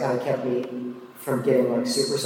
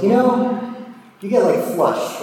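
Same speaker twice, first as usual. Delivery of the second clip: cousin's voice pitched up high and louder; mock cousin; 8 semitones higher, 5 dB louder than usual. Teasing the narrator about flushing, high voice. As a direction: play the older cousin, high and bright.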